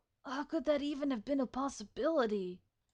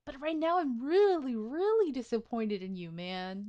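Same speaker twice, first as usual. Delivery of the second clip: louder, emphatic real disappointment; upset; 4 dB louder than usual. Real, not acted. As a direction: scold the game character for failing. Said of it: "I'm super upset right now".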